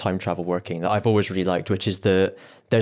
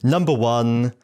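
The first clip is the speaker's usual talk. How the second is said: bingo caller; slower than usual. Shown as a demonstration. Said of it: "I'm, like, doing bingo calling".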